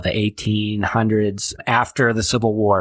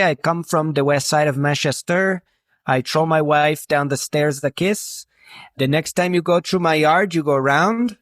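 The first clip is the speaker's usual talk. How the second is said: put-on French Canadian accent; 4 semitones higher than usual. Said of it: "that's the extent of my French Canadian".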